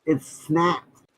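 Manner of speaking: muffled through a face mask. Real, not acted. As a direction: speak muffled behind a mask. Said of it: "you sound like the teacher from Charlie Brown".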